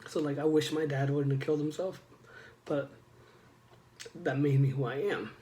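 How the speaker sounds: really choked up, halting with long pauses; getting emotional. Real, not acted. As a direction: hold back emotion while pushing the words out. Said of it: "sorry, I'm getting emotional".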